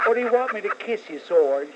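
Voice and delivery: high, swooning crooner voice; impression of a singer. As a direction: coo it like a lovestruck crooner. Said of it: "that Jim Nabors".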